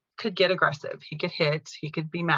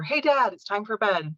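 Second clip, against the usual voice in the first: light, higher-pitched call to dad; easy bedtime coaxing; 3 semitones higher than usual. Retold or imitated. Daughter to dad at bedtime on an easy night, lightly coaxing. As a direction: gently sing out a bedtime suggestion.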